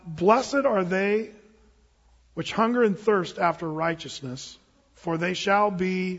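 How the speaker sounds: each word drawn out, leaving the end open; slow scripture reading. Shown as a demonstration. Preacher prompts the congregation to finish the verse, slow and open. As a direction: read it slowly so they fill in the rest.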